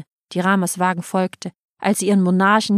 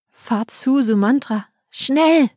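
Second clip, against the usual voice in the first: climbing higher to a sharp "schnell"; urgent order; 5 semitones higher, slower than usual. Acted. Rama orders Sumantra to hurry away, urgent call. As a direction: push the driver, ending sharply. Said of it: "und rief".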